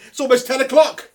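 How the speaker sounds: laughing through the words; giggling as you say it. Real, not acted. Laughing at mate's wife.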